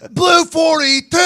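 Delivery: high, drawn-out snap call; loud stretched play call; quarterback cadence. Acted. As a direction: holler it out like a quarterback. Acting out calling the snap.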